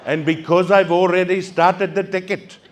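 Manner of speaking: lightly voiced polite officer, a touch of laughing; prim, apologetic officer voice, mildly put on; a hint of a fussy rent-a-cop; parking officer.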